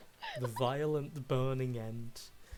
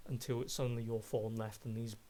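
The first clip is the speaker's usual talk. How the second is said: measured descriptive scene narration; game master narration. Acted. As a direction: paint the fight for the players, steady and vivid.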